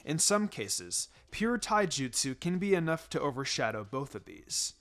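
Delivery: a relaxed sensei praising his students; Kakashi's voice. Acted. Kakashi lectures on taijutsu.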